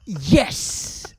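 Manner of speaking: slow, high, laughing British voice; rock frontman impression. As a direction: ham up Mulaney's rock frontman. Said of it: "Mulaney doing a rock frontman".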